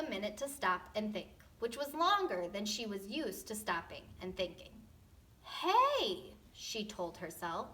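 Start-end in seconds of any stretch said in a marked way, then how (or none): 5.4-6.3 sudden realization. Acted. Goldilocks realizing.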